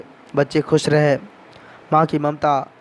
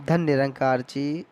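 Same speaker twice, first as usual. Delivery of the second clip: lovingly; 2 semitones lower, 7 dB quieter, slower than usual. Shown as a demonstration. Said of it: "प्यार से बोलिए".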